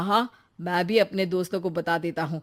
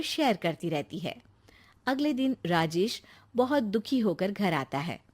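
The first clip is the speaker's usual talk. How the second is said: softer, even storyteller voice; story narration; 2 semitones higher, 4 dB quieter than usual. A narrator's reading. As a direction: narrate the turn of the story calmly.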